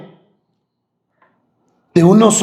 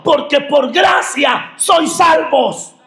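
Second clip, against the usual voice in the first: higher pitched proclaiming; preacher stating the verse; preaching proclamation; 6 semitones higher than usual. Acted. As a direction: declare the verse to the church. Repeats the key verse.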